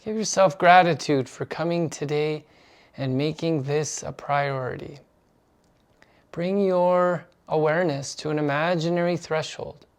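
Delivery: measured guiding voice with long pauses; unhurried meditation instruction; guided meditation. Acted. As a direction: lead them gently into stillness. Leads the meditation.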